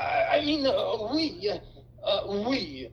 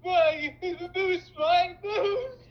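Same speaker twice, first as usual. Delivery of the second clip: crying; 5 semitones higher, much slower than usual. Acted. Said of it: "Frank bursts into tears".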